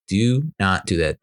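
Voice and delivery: "Do not do that" slowly, each word set apart; firm warning. Retold or imitated. Repeated warning to his daughter.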